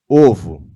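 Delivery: "Ovo" loud and low with rounded lips; "Ovo" demonstrated loudly, lips puckered on the o; pouted vowel. Shown as a demonstration. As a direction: punch out "Ovo" through a little pout. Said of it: "Ó o biquinho aparecendo".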